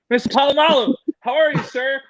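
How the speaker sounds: high and loud, thrilled fan; awed fan saying hello; starstruck greeting. Retold or imitated. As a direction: greet your hero with giddy respect. Starstruck greeting to football star.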